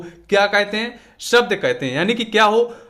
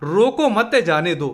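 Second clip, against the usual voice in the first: रोको मत as one group, then जाने दो; pause after मत. Shown as a demonstration. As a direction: join रोको to मत and set जाने दो apart. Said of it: "और दूसरा हो जाएगा".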